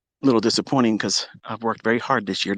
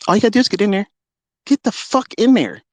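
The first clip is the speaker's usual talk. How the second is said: fired-up dare; 9 semitones higher, 3 dB louder than usual. Real, not acted. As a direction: bark the challenge at them. Daring rivals to join contest.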